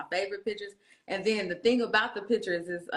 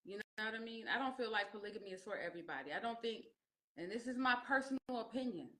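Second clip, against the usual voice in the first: soft; 9 dB quieter than usual. Real, not acted. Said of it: "sudden soft earnest answer".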